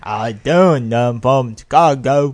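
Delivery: slow, badly faked Chicago accent; fake Chicago accent. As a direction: drag out a clumsy Chicago accent. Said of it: "sound like they're from Chicago".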